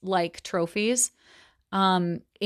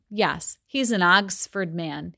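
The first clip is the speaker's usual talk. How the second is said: put-on Wolfsheim's accent; slower than usual. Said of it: "it comes out that way with his accent".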